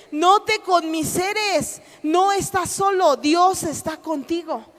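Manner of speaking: slow, firm, deliberate reassurance; measured words from above; voice of God. Acted. God answering the self-pitying believer, slow and firm. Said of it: "llega una voz de parte de Dios".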